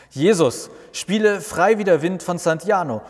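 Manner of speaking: loud, high call across the garden; calling toward the grill. Acted. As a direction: shout it over to the grill. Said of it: "ruft er Richtung Grill". (laut und hoch Richtung Grill gerufen)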